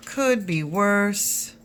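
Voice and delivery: put-on slow, deliberate old grandpa; lightly voiced grandfather, unhurried; deadpan grandpa catchphrase; slow grandpa drawl.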